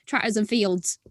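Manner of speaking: lightly put-on rural Norfolk accent; a touch of English pirate in a Norfolk accent. Shown as a demonstration. Showing the others how family back home talk, in a Norfolk accent. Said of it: "with the Norfolk accent".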